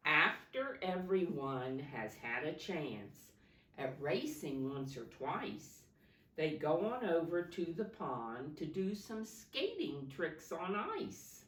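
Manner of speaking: rhythmic picture-book read-aloud; reading to children. Acted. Teacher reading a snow story to her class, lilting. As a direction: lilt the rhyming verse for the class.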